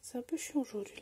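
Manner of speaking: a whispered grumble. Real, not acted. Vlogger complaining about the light to viewers, whispered. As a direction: let it slip out as a hushed aside.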